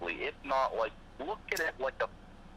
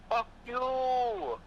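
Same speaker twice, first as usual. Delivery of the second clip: put-on North Korean accent; 11 semitones higher, slower than usual. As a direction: yell it like an angry Korean leader. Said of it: "best North Korean accent I've ever heard".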